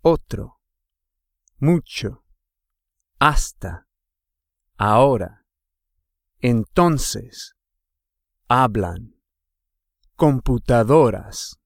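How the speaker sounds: "Otro", "mucho", "hasta", "ahora", "entonces", "hablan", "computadoras", each stressed on the penultimate syllable; "Otro" through "computadoras" as spaced examples, second-to-last syllable emphasized; stress on next-to-last syllable. Shown as a demonstration. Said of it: "stress is placed on the next to the last syllable".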